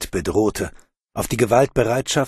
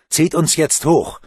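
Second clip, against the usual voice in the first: straining call; 6 semitones higher, 5 dB louder than usual. Acted. Bruno calls up to helpers.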